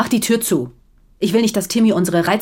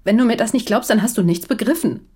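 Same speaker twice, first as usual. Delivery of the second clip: rising anger; 4 semitones higher, 3 dB louder than usual. Acted. Marital quarrel escalates.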